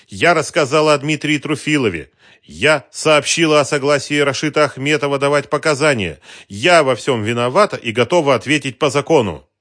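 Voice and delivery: loud, high, almost hateful; defiant confession. A narrator's reading. Woman confessing to the detective, defiant loud outburst. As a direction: throw the confession at him.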